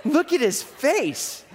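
wife crying at a pug photo, imitated high and teary; through tears. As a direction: imitate her sobbing over cuteness. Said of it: "And through tears".

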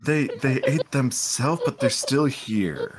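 slow, halting bewilderment; stunned disbelief. Acted. Abbot questions the crew about self-eating, baffled. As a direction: stammer it out slowly, struggling to grasp it.

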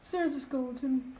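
said softly under breath; mumbled. Acted. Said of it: "can you speak up".

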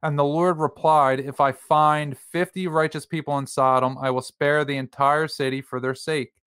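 Bible story narration with lightly lifted pitch; scripture reading aloud. A narrator's reading. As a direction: read the dialogue on evenly, as scripture. Reads Bible passage aloud.

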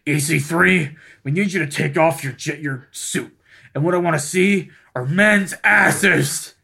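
Vince McMahon. Acted. Friend playing a boss giving a wrestler orders, mock impression. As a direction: play the demanding boss, drawing out the last words. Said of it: "That, that sounds like Vince".

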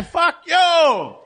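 driveway shouting match, mock yell; retold neighbor shout. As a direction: imitate the neighbor yelling. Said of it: "And I have to reply".

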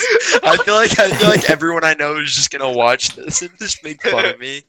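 nervous laughing talk; laughing off fear. Real, not acted. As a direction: laugh through the embarrassment. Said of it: "most nervous laugh".

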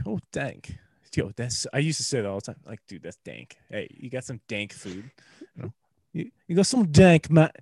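put-on light British accent on old slang; a hint of a British accent, casual; mock British accent with mild swagger. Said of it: "How was my British accent".

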